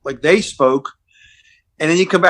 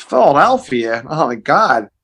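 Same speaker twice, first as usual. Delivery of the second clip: slow California drawl of amazement; drawn-out California accent; laid-back California accent; 2 semitones lower, slower than usual. Retold or imitated. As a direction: imitate a mellow, amazed Californian. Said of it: "that laid-back California accent".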